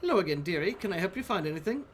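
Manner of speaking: put-on sweet old librarian greeting a visitor; kindly librarian voice.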